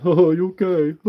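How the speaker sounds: lightly mocking kid voice; playground taunt. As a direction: mimic a schoolkid's jibe lightly. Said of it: "kids say to each other in the playground".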